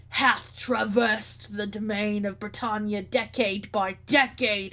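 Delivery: slow, grand archaic king throwing down a challenge; a lightly voiced proud old king, measured and commanding; regal king. King challenging the stranger for his throne, lightly voiced and proud.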